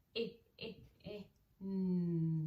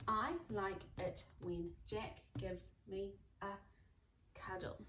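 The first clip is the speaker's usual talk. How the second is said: slow reading back; 4 dB quieter, slower than usual. Shown as a demonstration. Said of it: "read it back to myself".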